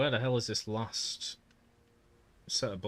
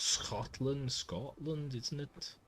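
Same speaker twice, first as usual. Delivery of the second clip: shaky grasp of a Scottish accent; attempted Scottish accent; 2 semitones higher, slower than usual. Shown as a demonstration. Streamer trying the hardest one, Scottish accent. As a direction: have an uncertain go at Scottish. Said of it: "Never been able to do Scottish".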